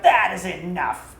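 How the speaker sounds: loud, slow furious shout. A narrator's reading. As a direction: bark it out to stop them cold. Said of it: "she shouted".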